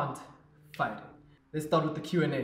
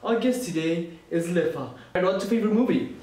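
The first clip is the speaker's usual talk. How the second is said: talk show host voice. Pretend. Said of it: "here it is".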